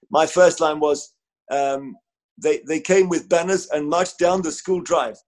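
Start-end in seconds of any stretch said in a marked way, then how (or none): 2.4-5.2 slow, chopped-up news read; a light imitation of a staccato reporter; staccato reporter style. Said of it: "I literally delivered it like that".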